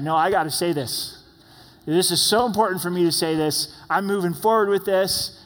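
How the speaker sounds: a touch of mock stubbornness; stubborn insistence. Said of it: "I haven't intentionally said".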